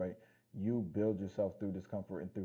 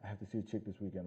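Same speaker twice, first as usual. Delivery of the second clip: mocking desperate guy; 5 dB quieter than usual. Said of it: "that dumbass mentality, like".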